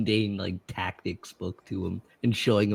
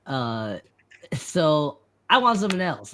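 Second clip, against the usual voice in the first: lightly voiced, higher eager student; student to mentor; 5 semitones higher than usual. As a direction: pipe up to your teacher, a bit sheepish. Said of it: "just to be like".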